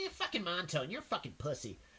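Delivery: irritating, grating voice with swooping pitch. Retelling a friend calling the speaker a pussy for leaving: irritating Porky Pig-like voice. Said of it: "he had a very irritating voice".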